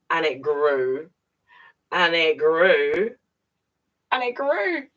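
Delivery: put-on reading to kids, stretching out the growing bubble; building wonder. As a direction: let each one swell bigger.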